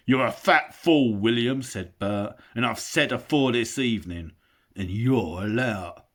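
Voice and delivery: loud insulting troll voice; angry troll. Acted. Bert insults William in a quarrel, loud. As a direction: spit out the insults.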